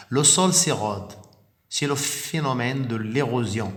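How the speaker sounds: clear, careful teacher reading of the text; model reading aloud. Shown as a demonstration. Teacher reading the lesson text aloud to pupils, clear and steady. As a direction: read it out as the model for the class. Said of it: "on va faire une lecture magistrale".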